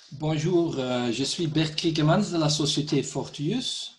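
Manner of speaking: non-native French speaker with a foreign accent; French spoken with a foreign accent. Real, not acted. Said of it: "mon français n'est pas très bien".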